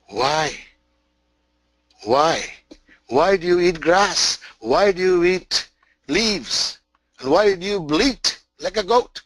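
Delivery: a great lion pressing the cub with each "why"; questioning lion. Acted. Lion questions the goat-raised cub.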